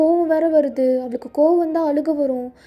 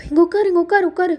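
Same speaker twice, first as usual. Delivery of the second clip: urgent command; 5 semitones higher, 3 dB louder than usual. Acted. Calming panicking girl urgently.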